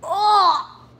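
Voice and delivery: loud, slow groan of disgust; smelling something awful. Real, not acted. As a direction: recoil from a foul smell. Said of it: "it doesn't even smell good".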